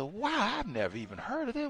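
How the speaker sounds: high, fast amazed exclamation; stunned wow. Retold or imitated. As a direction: gasp out your surprise. Retold own amazement.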